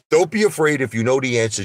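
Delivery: imitated lawyer. Lawyer goading witness on stand.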